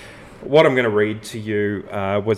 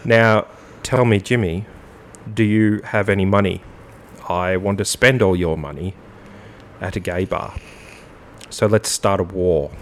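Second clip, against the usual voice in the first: measured spoken lyrics with long pauses; deadpan lyric recital; 2 semitones lower than usual. Acted. Host reading song lyrics to Jimmy, deadpan. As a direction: read it straight, like an official statement.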